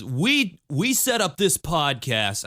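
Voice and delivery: slow, solemn cult-leader voice; lightly voiced slow solemn leader; David Miscavige voice. Shown as a demonstration. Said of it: "the David Miscavige voice is".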